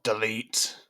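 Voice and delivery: metallic robot voice barking one word; robotic shout. Acted. Robot shouting at Liam, robotic shout. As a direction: bark it like a machine. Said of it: "a robotic voice, shout".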